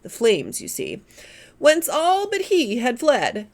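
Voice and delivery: poem recited with whooshing flame sounds; hammed-up recitation. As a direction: ham up the burning deck with effects. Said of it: "I can do that with a bit of action".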